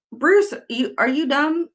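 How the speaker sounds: high, incredulous put-down; exasperated jab. Real, not acted. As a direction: scoff at him. Scolding opposing counsel.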